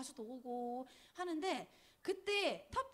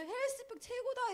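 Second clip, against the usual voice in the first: mock cheer, pitched much higher; dad's cheer; 11 semitones higher than usual. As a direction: cheer it like an overjoyed dad. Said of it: "이러면서". (아빠 흉내로 높게 외치는 환호)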